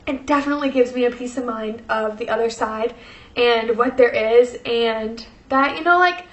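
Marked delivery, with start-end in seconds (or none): 5.8-6.3 emotional. Real, not acted. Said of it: "I'm sorry for getting emotional".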